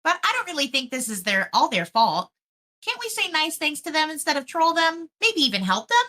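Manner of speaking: put-on valley girl. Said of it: "like, Valley Girl?".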